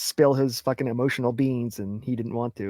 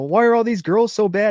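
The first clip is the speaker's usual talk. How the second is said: higher, louder mock complaint; whining guy; 8 semitones higher, 7 dB louder than usual. Cohost mocking a guy blaming his girlfriends, higher and louder. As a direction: whine like a clueless boyfriend.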